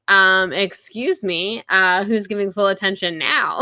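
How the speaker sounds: loud teasing call-out; mock indignant teasing. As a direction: call them out with playful mock outrage. Retelling Ambrose's indignant teasing.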